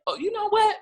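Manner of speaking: fed-up cry to God, mock-dramatic; retold giving up. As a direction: throw up your hands in frustration. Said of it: "And that was like".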